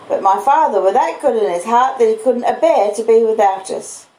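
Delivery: Joe the blacksmith. Acted. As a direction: speak as simple, proud Joe. Joe voiced in the story.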